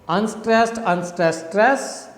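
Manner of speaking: "Unstressed, unstressed, stress" as three beats, lifting on the last; rising rhythm. Shown as a demonstration. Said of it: "again a rising rhythm".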